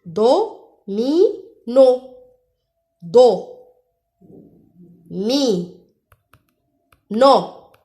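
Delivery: "Do, mi, no" in separate emphatic beats; syllable by syllable. Shown as a demonstration. Teacher quizzing pupils on the sound, "Do, mi, no" in isolated syllables. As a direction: pause after each of "Do", "mi", "no". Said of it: "Où j'entends le son mais?".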